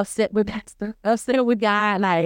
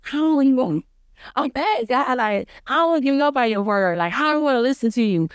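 higher-pitched, lightly acted refusal; indignant protest; 5 semitones higher than usual. Believer refusing God's request, higher mock indignation. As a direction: re-enact a stubborn complaint, pitched up.

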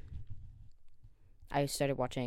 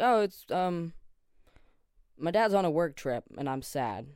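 higher, louder, put-on innocent cover story; fake excuse; 4 semitones higher, 6 dB louder than usual. To friends asking why she cries, mock innocent excuse. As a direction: brush them off with a bright fake reason.

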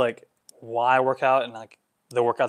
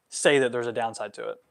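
normal talking voice

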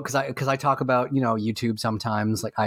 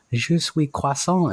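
imitated French accent; 3 semitones higher than usual. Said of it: "where they go".

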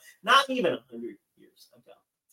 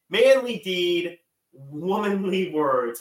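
mock solemn motto; 3 semitones higher, 5 dB louder, much slower than usual. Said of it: "Maryland's motto, of course".

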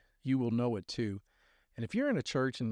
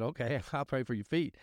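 laughing reply. Retold or imitated. Mom laughing agrees.

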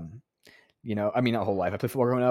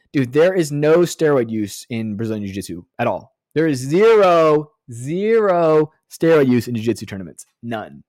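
mock serious; 5 dB louder than usual. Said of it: "No, I'm just kidding".

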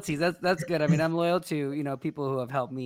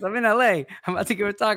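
retold emphatic announcement; 4 semitones higher, 4 dB louder than usual. Retold caller announces himself emphatically.

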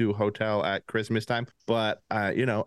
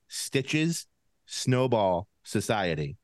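slow and careful; slower than usual. Shown as a demonstration. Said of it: "that's a tough one for somebody with a lisp".

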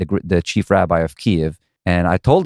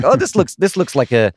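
amazed oh; 5 semitones higher than usual. Retold or imitated. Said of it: "You know, I was like".

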